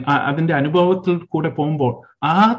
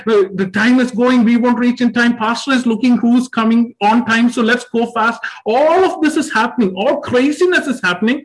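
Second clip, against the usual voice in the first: hurried yelling; 4 semitones higher than usual. Retold or imitated. Family rushing to church on time, frantic raised voice. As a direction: push everyone out the door, voice raised. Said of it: "everyone is just yelling and shouting".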